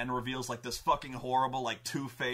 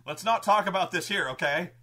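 louder words through laughter; nervous laughing; 5 semitones higher, 6 dB louder than usual. Retold or imitated. Brendan stalling his greedy party, laughing nervously. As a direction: laugh it off and hush them. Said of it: "And they're like".

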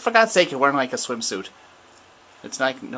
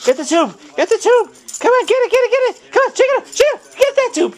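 loud, high calls to grab it; excited cheering; 8 semitones higher, 7 dB louder, much faster than usual. Real, not acted. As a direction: egg the dog on, loud. Urging the dog on.

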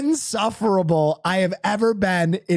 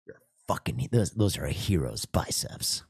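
mock self-praise; 7 dB quieter than usual. Praising himself in bed while wife sleeps, soft low murmur. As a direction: purr it to yourself like a vain idol. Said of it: "like Patrick Bateman".

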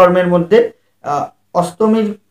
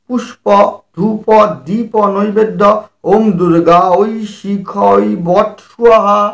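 measured, chanted Sanskrit offering formula; lightly chanted puja mantra; mantra recitation; slower than usual. Acted. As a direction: intone each offering like a priest.

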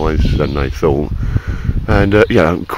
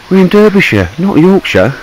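pitched up high in mock outrage; mock indignant; 11 semitones higher, 4 dB louder than usual. Correcting his mate about the county, in high mock indignation. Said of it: "I said".

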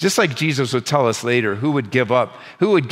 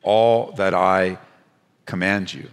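very slow, measured divine command, dropping lower; direct command; 5 semitones lower, much slower than usual. Retold or imitated. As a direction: hand down the order word by word, with weighty pauses. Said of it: "a very direct command".

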